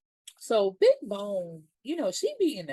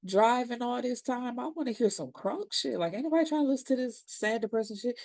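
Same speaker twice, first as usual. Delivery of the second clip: higher, fast complaining passenger voice; whiny Gidget; 6 semitones higher than usual. Retold or imitated. Gidget demanding crunk music, higher and whiny. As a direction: gripe about the sad radio. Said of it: "she like".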